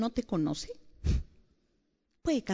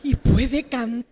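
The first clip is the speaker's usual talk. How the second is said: slow mock self-righteous; much slower than usual. Acting out jealous self-righteous thoughts.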